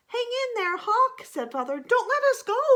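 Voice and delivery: high, loud pleading; urgent plea. Acted. Father frog pleading loudly with the hawk to hold on. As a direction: beg the hawk desperately.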